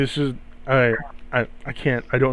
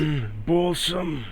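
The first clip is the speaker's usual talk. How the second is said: slow, softer, a timid try at a raspy celebrity voice; attempted Seth Rogen voice; 5 dB quieter, slower than usual. Shown as a demonstration. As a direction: drag out "Balsam" as a hesitant impression. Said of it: "You sound like Coat of Arms".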